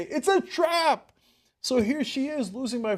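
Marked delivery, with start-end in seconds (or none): 0.0-1.1 slow, high mock alarm; a hint of Admiral Akbar's warning; drawn-out playful warning. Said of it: "as Admiral Akbar would say".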